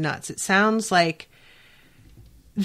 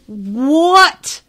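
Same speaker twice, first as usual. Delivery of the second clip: a sudden, louder, higher what of disbelief; shocked what; 5 semitones higher, 6 dB louder than usual. Real, not acted. Reacting to Veronica's question, a loud shocked what. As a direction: gasp it out like you can't believe it.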